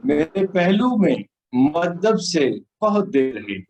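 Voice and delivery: solemn, measured poem delivery; stately nazm recitation. Acted. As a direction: recite the nazm slowly to the audience.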